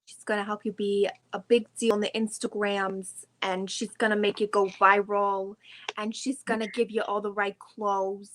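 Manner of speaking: mock New Jersey MLM pitch; a lightly done New Jersey guru; New Jersey accent. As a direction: sell it like a Jersey life coach. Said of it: "I can back up Not Vinny".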